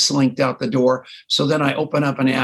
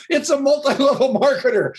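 mock delivery-room announcement; 10 semitones higher than usual. Doctor announcing his birth.

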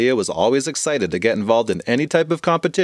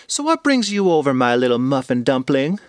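doting grandma. Acted. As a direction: coo the pet name. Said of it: "asked Grandma".

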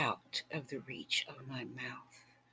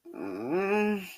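moan; 4 semitones higher than usual. Acted. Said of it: "And I moaned".

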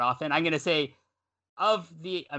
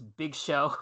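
air quotes. Real, not acted. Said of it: "I'm gonna say this with air quotes".

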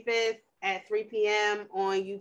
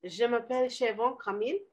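French self-intro. Shown as a demonstration. Told to put French in, she tries a light French accent. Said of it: "you just got to put the French in there".

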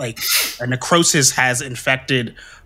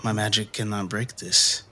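out of breath; 5 semitones lower, 8 dB quieter than usual. Acted. Exhausted priest speaking after ritual.

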